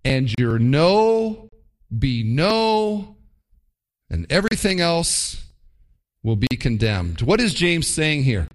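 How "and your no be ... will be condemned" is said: scripture quote. Retold or imitated. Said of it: "He says this".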